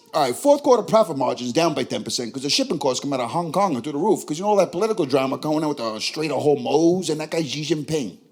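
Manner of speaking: lightly played New York accent; casual New York business talk; thick New York accent. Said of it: "the interview will go like this".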